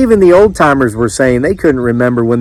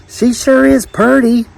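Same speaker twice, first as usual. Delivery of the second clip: high, slow country lad; admiring son; 10 semitones higher than usual. A narrator's reading. Young man defending the stranger to mama, high admiring voice. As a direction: draw it out in admiration, pitched up.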